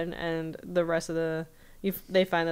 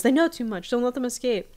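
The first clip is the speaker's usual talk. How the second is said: higher and louder, giving urgent orders; commanding villain; 6 semitones higher, 5 dB louder than usual. Retold or imitated. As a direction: bark the order at the society members. Voicing Blind Ivan ordering the members.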